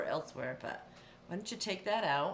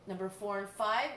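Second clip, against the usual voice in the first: ordinary talk, nothing marked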